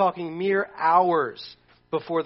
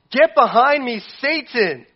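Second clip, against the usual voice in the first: higher, louder firm command; Jesus rebukes; 6 semitones higher, 7 dB louder, slower than usual. Retold or imitated. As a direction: banish him with force. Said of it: "But what did he say?".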